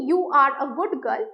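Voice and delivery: gentle, even delivery of kind praise; said nicely. Shown as a demonstration. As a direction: say it nicely, without raising the voice. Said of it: "আমি যদি এটা ভালো করে বলি".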